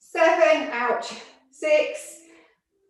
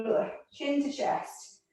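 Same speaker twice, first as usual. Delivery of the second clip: breathy, effortful and slower; strained exhale; 3 semitones higher, 7 dB quieter than usual. Real, not acted. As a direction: push the words out through the stretch. Instructor straining mid roll-down.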